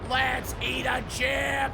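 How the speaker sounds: excited shout. Real, not acted. Celebrating with a chip.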